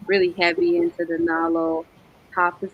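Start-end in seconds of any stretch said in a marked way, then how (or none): 2.4-2.6 cut lip. Real, not acted. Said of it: "Words are hard right now 'cause I cut my lip".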